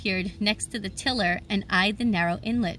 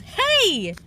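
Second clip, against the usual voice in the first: sharp high startled yell, louder; 12 semitones higher, 5 dB louder than usual. A narrator's reading. Narrator startled by a voice in the cabin, yelling. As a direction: jump back and shout it. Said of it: "I jumped back and yelled".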